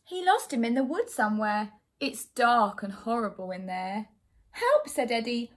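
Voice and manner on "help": high-pitched, sudden yelp of alarm; frightened cry for help. A narrator's reading. Lost boy calling out in the dark wood, frightened.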